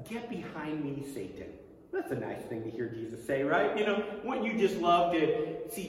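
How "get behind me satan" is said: quiet, sinking stern rebuke. Retold or imitated. Jesus rebukes Peter, a quiet stern warning. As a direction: drop the voice, firm and grave. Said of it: "And Jesus says".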